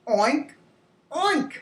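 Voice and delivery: two oinks, second leaping high; pig oink. Shown as a demonstration. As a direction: imitate a pig for children. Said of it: "talk about the sounds".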